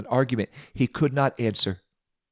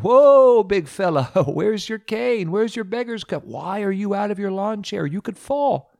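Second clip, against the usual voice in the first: high-pitched alarmed fussing, opening on a loud drawn-out whoa; startled friends fretting, voices pitched well up; curious, concerned friends; 9 semitones higher, 4 dB louder than usual. A narrator's reading. Friends see the blind man running, high worried alarm. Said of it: "his friends were curious and concerned".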